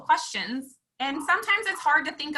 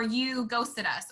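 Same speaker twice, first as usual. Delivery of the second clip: slow accusing; much slower than usual. Retold or imitated. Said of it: "be like".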